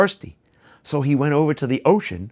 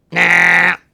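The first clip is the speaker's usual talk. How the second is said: cheeky refusal; 3 semitones higher, 7 dB louder than usual. Acted. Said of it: "Tiddlik said".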